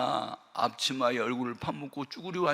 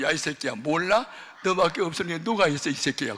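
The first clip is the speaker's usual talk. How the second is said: a touch of an angry mother, somewhat louder; scolding mother; 3 semitones higher, 5 dB louder than usual. Retold or imitated. Mother scolding her son with a poker, angry.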